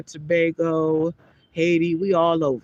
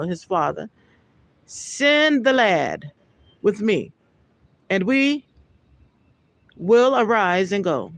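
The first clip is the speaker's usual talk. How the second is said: raised, measured Bible reading voice; scripture reading. Acted. Preacher reading Genesis aloud to his listeners, solemn. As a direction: read the verse out with solemn weight.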